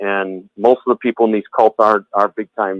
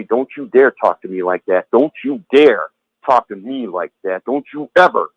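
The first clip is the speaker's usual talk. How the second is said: imitating an intimidating bully with mild force; deliberate, emphatic mock scolding; retold threat; 2 semitones lower than usual. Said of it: "real intimidating and very, very threatening to you".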